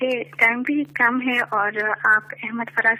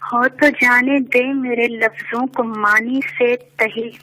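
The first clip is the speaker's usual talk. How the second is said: stately nazm recitation; 2 semitones lower than usual. Acted. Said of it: "ایک نظم پیش کرنا چاہوں گی".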